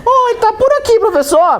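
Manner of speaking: high, playful student calling the teacher. Acted. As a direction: greet the teacher like a cheeky pupil. Teacher voices a student greeting. (voz aguda de aluno brincalhão)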